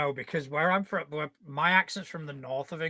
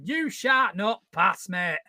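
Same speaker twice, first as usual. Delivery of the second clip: lightly acted wizard's command in northern English, slow and raised; Gandalf with northern accent; 3 semitones higher, 3 dB louder, slower than usual. Northern Englishman imagines remaking Lord of the Rings, mock-grand. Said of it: "someone with an accent like mine going".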